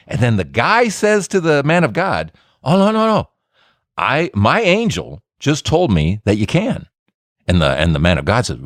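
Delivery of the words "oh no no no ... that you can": coaxing liar. Acted. Lying man persuading the prophet.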